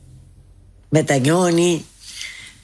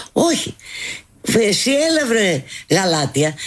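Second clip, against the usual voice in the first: mock retort; 4 semitones higher than usual. Mock retort in a retold scene.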